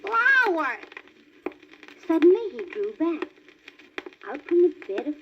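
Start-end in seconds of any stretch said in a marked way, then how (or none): 0.0-0.8 high eager little fawn; excited cry. A narrator's reading. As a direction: call out delighted. Bambi names the skunk.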